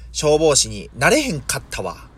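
light imitation of Kansai intonation; Kansai dialect. Recalling the book line admired as a schoolchild, in Kansai dialect. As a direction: say it as a mild Kansai-dialect quote. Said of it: "関西弁にこう憧れを感じてた".

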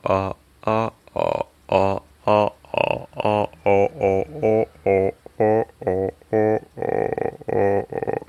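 singing the lowest note in chest voice; deep low voice. Shown as a demonstration. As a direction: hold the lowest pitch you can reach. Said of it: "私の地声の場合は".

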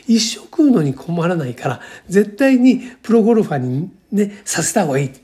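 mildly insistent, retelling his own pitch; retold emphatic urging. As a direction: push the point home, leaning on the key words. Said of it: "俺は力説したんですよ". (力説した時の再現、少し熱を込めて)

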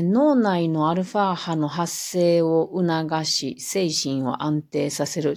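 slow, flat reading off the page; flat monotone reading. Shown as a demonstration. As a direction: read it stiffly, like a script. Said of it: "棒読みで、あの、読んでますが".

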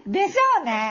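said through loud laughter; laughing. Real, not acted. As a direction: laugh out the words. Laughing reply. (笑いながら)

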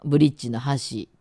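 「箸」 said with the Osaka pitch for bridge; 橋（bridge）のアクセント. Shown as a demonstration. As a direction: say 「箸」 as bridge, not chopsticks. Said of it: "発音変わると意味が変わる". (橋（はし）の大阪弁アクセント)

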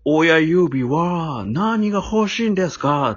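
slow, lightly voiced croaky grandpa; a hint of a raspy old man, drawn out; hoarse old man. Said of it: "ちょっとしわがれたおじいさんの声で".

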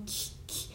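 キ with a clean, neutral K, not forced; 丁寧なKの発音. Shown as a demonstration. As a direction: isolate キ with a careful K sound. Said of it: "Kの発音が強調してるっていうほどでもない". (「キ」のKを綺麗に丁寧に)

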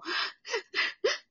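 high-pitched imitated sob escaping; mock sobbing. Shown as a demonstration. Showing cohost how she cries with age, mock sobbing. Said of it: "って泣くわ".

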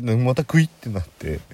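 usual speaking voice

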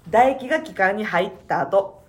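coughing after spit went down wrong; cough, then speak a bit slowly; choking on saliva. Real, not acted.

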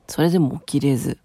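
worn-out whisper; drained, barely voiced; exhausted. Real, not acted. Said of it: "かなり疲労困憊しておりまして".

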